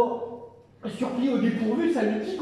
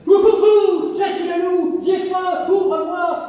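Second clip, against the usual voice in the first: higher, louder hammed-up wolf howl; a loud, greedy wolf demanding entry; big bad wolf; 8 semitones higher, 8 dB louder, slower than usual. Wolf calls to the pig, loud and hammy.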